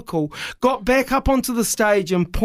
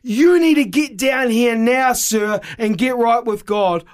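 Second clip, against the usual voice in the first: preacher rebuke; 5 semitones higher, slower than usual. Retold or imitated. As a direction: call him out from the pulpit. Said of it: "and he said".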